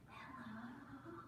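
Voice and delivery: tiny, hushed hello; barely-there drawn-out greeting; very quiet hello. Shown as a demonstration. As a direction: say hello as softly as possible. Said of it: "as quiet as we can".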